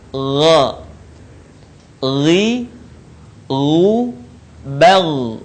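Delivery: Gha, Ghi, Gu made gently at the upper throat; soft unaspirated gh, held at the end of Bal. Shown as a demonstration. Teacher demonstrates for learners, soft throaty Gha, Ghi, Gu. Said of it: "Diucapkan dengan lembut suaranya".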